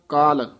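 ਕਾਲ with a long open aa, not ਕਲ; correct pronunciation. Shown as a demonstration. Teacher correcting a student's ਕਲ to ਕਾਲ, long aa. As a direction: stretch the vowel in ਕਾਲ. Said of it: "ਇਹ ਕਲ ਨਹੀਂ ਕਹਿਣਾ".

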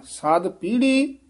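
ਸਾਧ light and ਪੀੜ੍ਹੀ heavy. Shown as a demonstration. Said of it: "ਸਾਧ ਪੋਲਾ ਬੋਲਣਾ ਹੈ, ਪੀੜ੍ਹੀ ਭਾਰਾ". (ਸਾਧ ਪੋਲਾ, ਪੀੜ੍ਹੀ ਭਾਰਾ)

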